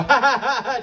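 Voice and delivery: deliberate ha ha ha laugh; spelled-out fake laugh; mock laugh. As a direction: laugh it out syllable by syllable. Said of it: "I laughed. I go".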